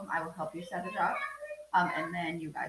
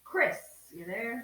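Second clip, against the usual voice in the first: slow, raised roll-call voice; 5 semitones higher, 5 dB louder, slower than usual. Real, not acted. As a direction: draw out the name, calling higher and louder. Roll call, calling a student.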